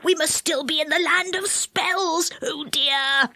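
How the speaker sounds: high, hushed dread; frightened whisper. A narrator's reading. Moonface realises they are in the land of spells, frightened whisper. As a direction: whisper your worry fearfully. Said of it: "whispered Moonface in a fright".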